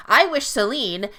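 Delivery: slow, unsure "I wish Selene" left hanging; hesitant trail-off. Retold or imitated. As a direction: start the wish, then lose your nerve. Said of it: "objectively pretty fucking smooth".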